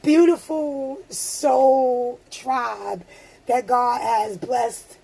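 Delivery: emotional. Real, not acted. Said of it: "I'm getting emotional".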